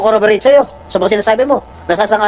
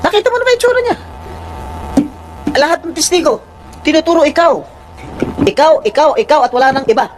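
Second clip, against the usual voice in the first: real indignant accusation, pitched up; raised voice; 6 semitones higher than usual. Real, not acted. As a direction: raise your voice to accuse the witness. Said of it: "Nagtataas kami ng boses".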